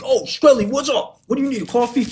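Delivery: bright, eager high voice for Tony; Tony voiced high. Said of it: "He's like".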